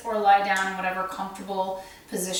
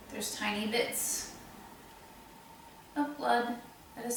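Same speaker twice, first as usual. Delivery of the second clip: guided meditation. Acted. Meditation leader guiding listeners through breath and heart wounds, guided meditation voice. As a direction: guide them gently, leaving space to breathe.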